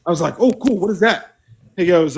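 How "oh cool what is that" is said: high, bright interest; keen young recruit; perked-up curiosity; eager. Retold or imitated.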